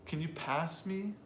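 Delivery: slow demo leaning on "pass"; "pass" stands out, "me" trails; stress on pass. Shown as a demonstration. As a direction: stretch "pass" as the key verb. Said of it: "I need the verb".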